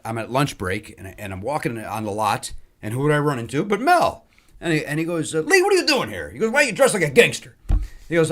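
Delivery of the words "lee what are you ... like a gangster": surprised greeting. Retold or imitated. Mel surprised to meet Lee.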